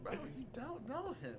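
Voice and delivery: high mocking fan voice. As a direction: squeak it out like a fan. Mocking fans, voice shifted high.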